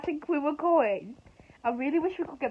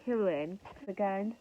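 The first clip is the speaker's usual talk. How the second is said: hungover. Real, not acted. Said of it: "I actually have a headache off that".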